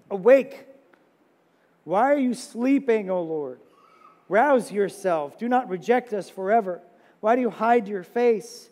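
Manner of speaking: loud, pleading scripture cry; desperate plea read aloud; impassioned psalm reading. Acted.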